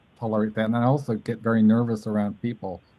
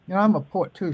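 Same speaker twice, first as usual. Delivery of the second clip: high voiced quote; 8 semitones higher, faster than usual. Quoting himself, high voice.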